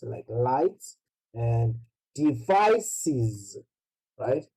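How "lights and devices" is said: slow lights and devices with clear final s sounds; plural S pronounced. Shown as a demonstration. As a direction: draw out the endings of lights and devices. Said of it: "to pronounce these S".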